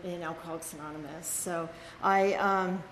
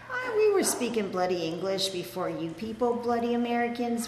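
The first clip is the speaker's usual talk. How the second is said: Scottish mum. Retold or imitated. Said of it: "she had a really thick Scottish accent".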